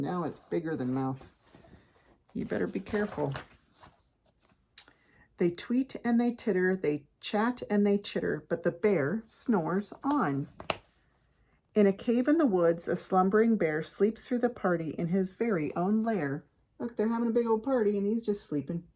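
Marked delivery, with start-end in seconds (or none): 5.4-16.4 story narration. A narrator's reading. Reads picture book aloud.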